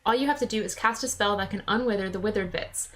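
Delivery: lightly voiced regional Drippy accent; chummy sidekick in his non-standard English; a hint of a folksy accent; Drippy's accent. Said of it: "writing in that accent".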